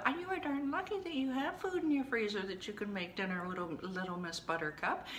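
hammed-up scolding, pitched high at the start; emphatic mock reprimand; harsh tough love. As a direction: playfully tell yourself off. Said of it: "that was a little harsh".

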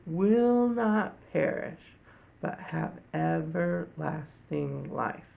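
slow, measured verse recital; teacher reciting the memory verse for the children; scripture recitation. Shown as a demonstration. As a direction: recite slowly, giving each phrase its weight. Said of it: "do this memory verse with me".

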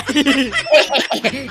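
pleased chuckle; laughing. Acted. Friend congratulating him on his confession, pleased laughing. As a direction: laugh along at the teasing.

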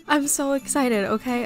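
giddy, struggling to stay calm; excited. Real, not acted. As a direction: gush with real excitement. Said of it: "okay, I need to calm down".

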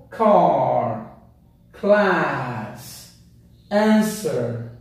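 British car, class, answer with a long open a; British teacher pronunciation; British English. Shown as a demonstration. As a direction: model the British a sound. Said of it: "no inglês americano nós temos uma pequena variação".

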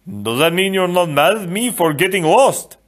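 high, loud, hopeful question; Fezzik, hopeful giant. A narrator's reading. Fezzik asks Inigo about getting lost, hopeful and high. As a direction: ask like a big anxious child seeking forgiveness.

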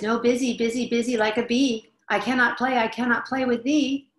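lightly voiced hurried grown-up brushing off; a touch of an impatient adult; busy adult. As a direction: wave the child away, busy. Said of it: "the adult replies".

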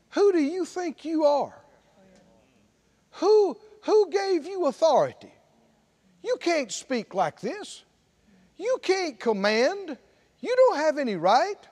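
a touch of the devil, mocking; mild sneering accuser; devil's taunt. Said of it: "What is the devil saying".

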